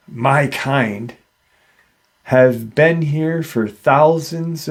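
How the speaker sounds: slow, deliberate retelling of the creature's words; measured creature speech. Retold or imitated. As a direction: space the phrases out as an ancient being explaining itself. Creature solemnly addresses the man.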